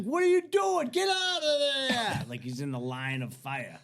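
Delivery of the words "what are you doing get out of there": imitated angry yell. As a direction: yell like an irate boss clearing the range. Range boss orders him off.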